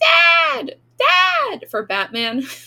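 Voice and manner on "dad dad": very high, shrill, swooping, squeaky cartoon scream. Recounting a cartoon where Robin calls for Batman: Robin screaming. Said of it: "he's just screaming".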